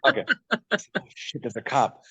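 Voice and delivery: a sudden high "Oh shit" of alarm; retold panic. Telling how he spotted the car behind him, alarmed. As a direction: replay the jolt of spotting a cop.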